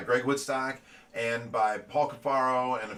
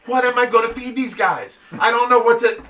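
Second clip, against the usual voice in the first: cause a scene in the grocery aisle; frantic loud outcry, voice pitched way up; making a scene; 10 semitones higher, 9 dB louder than usual. Retold or imitated. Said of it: "I'm making a scene in the store".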